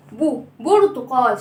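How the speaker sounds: "برتقال" said slowly with a long, lip-rounded first "bu"; rounded "bu" sound. Shown as a demonstration. Teacher showing children her mouth shape, rounded "bu" in "برتقال". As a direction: draw out the rounded "bu" opening "برتقال". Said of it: "شايفين فمي عامل إزاي؟".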